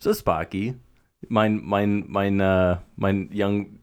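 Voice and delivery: halting attempt at a German accent. Friend taking up the Germany challenge, halting German accent. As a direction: grope for German words in accent.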